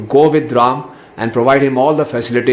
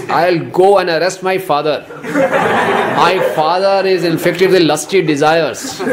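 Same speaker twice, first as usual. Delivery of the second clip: louder, heated outburst with laughter breaking in; hammed-up fury of a young brother; raging anger; 3 semitones higher, 4 dB louder than usual. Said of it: "Lakshman was raging with fire".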